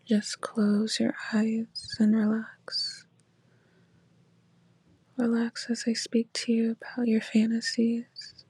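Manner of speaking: calm them down gently. Acted. Guiding listener to relax.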